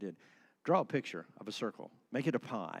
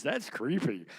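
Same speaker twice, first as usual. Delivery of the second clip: mock reaction; 3 semitones higher, 5 dB louder, slower than usual. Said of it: "first word that comes out".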